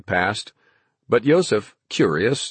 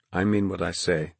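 softer, steady and sure; calmly; 2 semitones lower, 5 dB quieter than usual. A narrator's reading. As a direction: state it quietly with resolve. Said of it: "Peter looked at him calmly".

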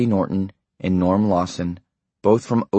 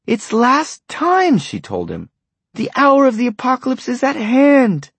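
prophetic; 4 dB louder than usual. A narrator's reading. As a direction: proclaim the end of days. Wife prophesies the apocalypse.

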